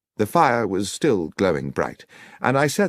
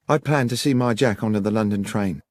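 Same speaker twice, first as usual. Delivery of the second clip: put-on higher-pitched young woman's voice; Miss Miller, earnest country witness; 6 semitones higher than usual. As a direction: tell your story to the detective, pitched high.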